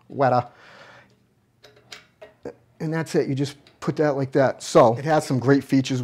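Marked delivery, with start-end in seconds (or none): 0.1-0.4 "Wetter" said with a Boston r-drop for right; mock Boston, "Wetter" for right; Boston accent. Shown as a demonstration. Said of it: "I'm starting to talk like I'm from Boston".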